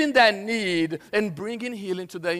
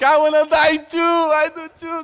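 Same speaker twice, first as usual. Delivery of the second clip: mock despair; 8 semitones higher, 9 dB louder than usual. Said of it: "And I'm like".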